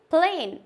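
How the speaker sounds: "plain" with a long, held ay; long A sound. Shown as a demonstration. Teacher giving the second long-vowel example, long A. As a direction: draw out the ay in "plain". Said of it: "long ए की sound दे रहा है".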